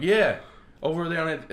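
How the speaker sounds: high, loud imitated Boston reply; eager mock Boston local; bad Boston accent. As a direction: answer loudly in a rough Boston accent. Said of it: "I can't do a good Boston accent".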